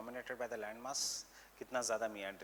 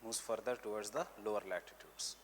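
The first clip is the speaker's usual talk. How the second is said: measured note-giving, repeating phrases for writers; teacher dictating notes for students to copy; classroom dictation; slower than usual. Real, not acted. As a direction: dictate in short chunks with long pauses.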